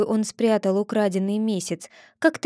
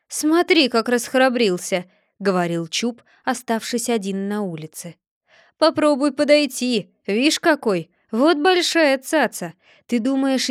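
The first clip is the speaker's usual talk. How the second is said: grumbling Chub; 3 semitones higher than usual. Acted. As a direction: mutter threats and rub your sore back. (обиженный Чуб ворчит сам с собой)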